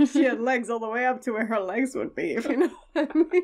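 lightly voiced noir narrator; hint of a hard-boiled detective. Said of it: "It's not even a forties accent".

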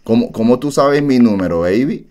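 Impression of a singer. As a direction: play a flirty pop star. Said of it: "Esa no es la voz de ese cantante".

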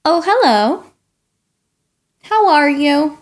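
lightly voiced pushy pigeon, pleading and dramatic; a hint of a whiny, excitable bird; pigeon character. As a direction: play the eager pigeon begging for a puppy. Reader voices the pigeon throughout.

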